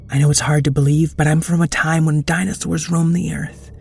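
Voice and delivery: pleading brightly with the dinosaur; Wendiana's voice. Acted. Time traveler Wendiana pleads.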